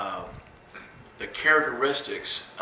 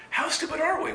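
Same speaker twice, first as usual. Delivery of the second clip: exasperated cry. Retold or imitated. Frustrated self-reproach.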